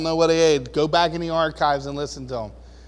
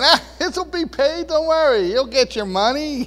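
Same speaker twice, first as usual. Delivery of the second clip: higher, breezy carefree promise; laughing reassurance; 8 semitones higher, 4 dB louder than usual. Retold or imitated. Pastor telling creditors not to worry, breezy and light. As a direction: wave the bill collector off lightly. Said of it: "I'm laughing, saying".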